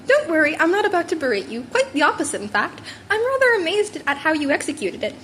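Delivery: lightly voiced sly animal principal; a hint of a pleased, scheming mentor; Nezu voice. Nezu in recording.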